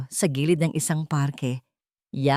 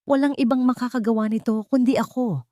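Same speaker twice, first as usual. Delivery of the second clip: proud and pleased with himself, pitched higher; boastful; 6 semitones higher than usual. A narrator's reading. Rocco on stage boasting to the crowd, proudly. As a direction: crow it like the man of the hour. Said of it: "Pagmamalaki ni Rocco".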